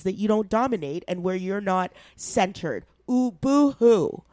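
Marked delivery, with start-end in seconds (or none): 3.1-4.2 mock sobbing boo-hoo, slow; sarcastic fake whimper; fake crying. Mocking the privileged's complaints.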